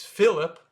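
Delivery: Philip as FILL-ip; English first-syllable stress on Philip; English pronunciation. Shown as a demonstration. Teacher gives the English name as guide, English pronunciation. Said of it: "but a little bit in French".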